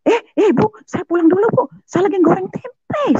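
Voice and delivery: very high-pitched, alarmed cry; retold sudden-remembering yelp; panicked calling out. (berseru panik karena teringat)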